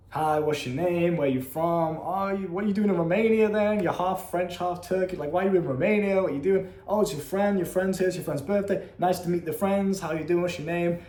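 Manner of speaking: lightly acted run of getting-to-know-you questions; retold chat-up patter. Chatting up a girl and meeting her friends, retold friendly patter.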